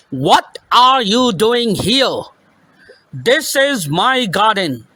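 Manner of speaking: a slow, angry giant's bark; gruff shout. Acted. Giant scolding the children in his garden, a mild gruff shout. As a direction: lightly shout it out as the cross giant. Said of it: "he shouted in a very gruff voice".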